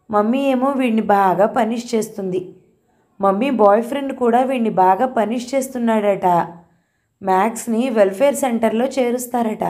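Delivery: a hint of a small boy pouring out his worry; lightly voiced worried boy. Grandson telling grandmother about his friend's divorced parents, worried.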